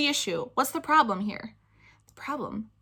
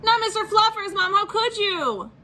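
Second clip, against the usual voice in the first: dramatic plea; 11 semitones higher, 3 dB louder than usual. Acted. Spencer begging mom to spare his bunny, high anguished. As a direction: beg like the world is ending. Child pleading over bunny.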